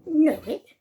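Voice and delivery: sudden surprised recognition. Acted. Scrooge surprised at warehouse.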